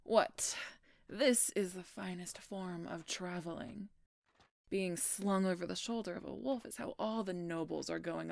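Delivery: loud, teasing mock protest; mock grandeur. Teasing the royal being carried.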